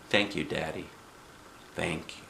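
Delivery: soft, low, breathed-out thanks; relieved thanks. A narrator's reading. Girl freed by Daddy, relieved. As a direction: sigh your thanks, spent.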